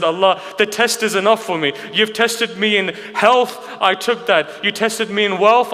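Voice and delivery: retold prophet's anguished appeal; impassioned plea. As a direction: plead as one pushed to the limit. Ayyub pleads with Allah.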